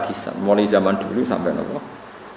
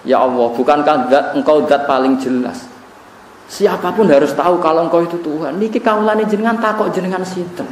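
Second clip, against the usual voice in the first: tearful prayer; 6 semitones higher than usual. Retold or imitated.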